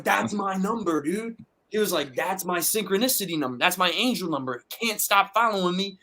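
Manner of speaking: acting out a friend rattled by a coincidence; lightly voiced, high-pitched mock alarm; mildly freaked out.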